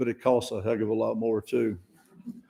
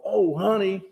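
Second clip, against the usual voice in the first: higher fond sing-song; fond oh honey; 6 semitones higher than usual. Shown as a demonstration. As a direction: say the title with a playful lilt. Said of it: "a wonderful sermon one day called".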